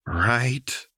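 happily. A narrator's reading. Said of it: "Jinx said happily".

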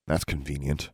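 sulky muttered sarcasm; bitter mutter. Acted. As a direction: grumble it under your breath. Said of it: "Alexandra muttered".

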